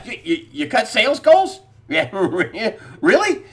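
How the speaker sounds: can't believe it, laugh it out; laughing disbelief. Real, not acted. Host to listeners about Wells Fargo, laughing incredulous. Host mocks bank cutting sales goals.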